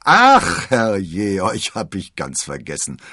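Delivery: very high, loud outburst, then settling; startled exclamation. A narrator's reading. D'Artagnan finding his forgotten snoring friends, startled exclamation. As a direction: cry out as memory suddenly hits. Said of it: "rief D'Artagnan".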